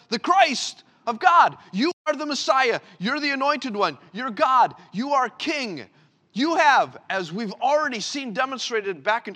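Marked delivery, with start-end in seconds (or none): 0.1-7.0 high, loud ringing confession; proclaiming loud. Acted. Peter confessing to Jesus, loud proclaiming. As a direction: shout it out like a believer.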